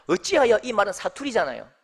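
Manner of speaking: ordinary delivery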